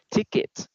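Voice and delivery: "ticket" with the last "t" released; clear final T. Shown as a demonstration. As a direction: model the ending "t" in "ticket". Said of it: "it said the letter T in here".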